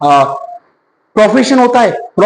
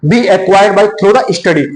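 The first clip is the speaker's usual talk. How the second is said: slow reading aloud; much slower than usual. Shown as a demonstration. Reads definition slowly.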